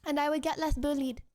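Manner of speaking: put-on French accent. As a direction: speak English with a French accent. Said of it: "The accent starts when I start".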